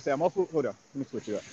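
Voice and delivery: muffled, far off phone; quiet blurry line; fuzzy soft voice. Real, not acted. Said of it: "he sounds a little blurry".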